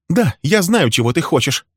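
high, loud, raging accusations; furious tirade. Acted. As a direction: unload years of grievance at him. Wife's furious tirade continues.

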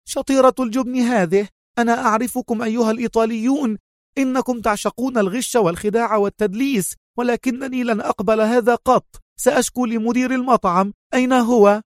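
high, fast, indignant tirade; sharp feigned anger. A narrator's reading. Mona berating the Italian staff, high and sharp. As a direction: accuse them shrilly, building to a demand. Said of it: "لوحت بذراعها في حدة".

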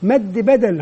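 slow, evenly spaced repetition; deliberate classroom modelling; repeat-after-me drill. Shown as a demonstration. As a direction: model the word for a class to echo. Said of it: "أطلب من الجميع أن يردد خلفي الكلمة".

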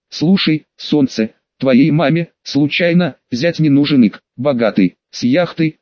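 tipsy, hiccuping flirt; slurred drunk talk with a hiccup. Acted. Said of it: "пьяно воскликнул я".

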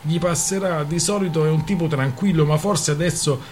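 a lightly voiced scornful friend; bursting out mockingly. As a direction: scoff at the newcomer's toast with mock concern. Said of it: "sbottò Rana".

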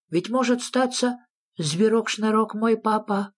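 high-pitched little creature; high character voice, querulous; wondering Sniff. A narrator's reading. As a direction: wonder aloud in a high, insistent voice.

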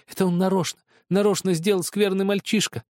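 high, near-crying accusing sister; tearful accusation. A narrator's reading. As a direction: accuse him on the edge of tears. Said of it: "со слезами в голосе". (обвинение сквозь слёзы)

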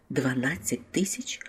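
slow, whispered disbelief; stunned babble. A narrator's reading. Priest hearing an unexpected fortune, stunned whisper. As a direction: whisper it, barely able to speak. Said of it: "пробелькотів жрець".

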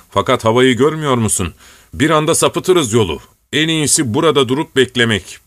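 plain reading voice

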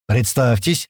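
usual speaking voice

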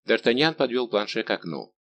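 plain reading voice

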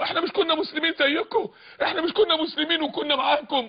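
high, protesting plea of the damned; acted appeal to former companions; pleading call. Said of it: "ينادونهم ألم نكن معكم".

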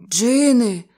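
high, loud terrified moan; moaning cry. Acted. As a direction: wail it out in horror. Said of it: "простогнав сенгалець".

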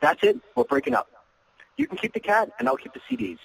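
high, mock-dramatic breakup; playful mock breakup. Shown as a demonstration. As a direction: pretend to dump her as a joke. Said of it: "you're being very playful".

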